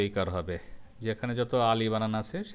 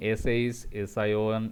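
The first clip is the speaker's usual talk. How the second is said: slow spelled-out letters; much slower than usual. Shown as a demonstration. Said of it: "ধ্বনিগুচ্ছের স".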